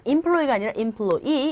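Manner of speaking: employee with the stress on the final "ee", stretched; stress on the last syllable of employee. Shown as a demonstration. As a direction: push the end of employee. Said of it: "이 단어 강세 어디 있습니까?".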